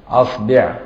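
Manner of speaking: أصبع said asbeʕ with a on the hamza and i on the b; vowel variants. Shown as a demonstration. Teacher to students, أصبع said asbeʕ. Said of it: "يعني بضم وفتح وكسر الهمزة".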